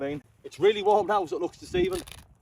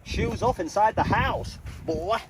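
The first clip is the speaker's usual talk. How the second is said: stern parent; 6 semitones higher, 3 dB louder, much slower than usual. Pretend. Entering tent, playful scolding.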